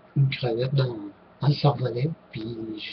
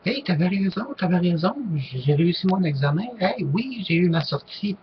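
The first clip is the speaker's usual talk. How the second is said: put-on higher, delighted kid voices; imitating excited classmates; 5 semitones higher than usual. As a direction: act out friends coming back thrilled. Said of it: "les autres qui je l'avais fait".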